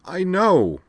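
high, loud-ish miserable wail. A narrator's reading. Rena answers Amanda's excuse, miserably. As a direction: wail it wretchedly, pitch way up. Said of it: "Rena replied miserably".

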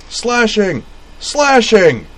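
loud high bellow. A narrator's reading. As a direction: roar the penalty call. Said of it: "bellowed Roy Chernov".

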